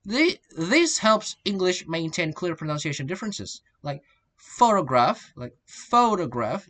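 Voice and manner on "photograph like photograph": "photograph" with the first syllable strong; noun stress. Shown as a demonstration. Teacher showing the noun, "photograph" stressed on the first syllable. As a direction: lean on the PHO of "photograph". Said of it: "this is noun".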